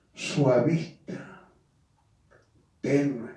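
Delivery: mocking a soft, timid voice. Shown as a demonstration. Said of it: "hablan con su voz". (voz suavecita y tenue, burlona)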